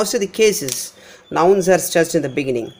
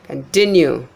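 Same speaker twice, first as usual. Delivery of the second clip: continue as kun-TIN-you; weak con, strong TIN in continue; middle-syllable stress; 3 semitones lower than usual. Shown as a demonstration. Teacher repeating the example, continue stressed on TIN. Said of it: "Continue is trust".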